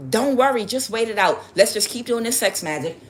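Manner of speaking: lightly hammed-up comforting; mock reassurance. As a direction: act out a coach urging patience. Mimics coaches' empty reassurances.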